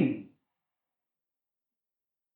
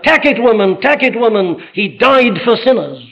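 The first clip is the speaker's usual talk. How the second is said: retold cry; 4 semitones higher than usual. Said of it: "he cried out to her".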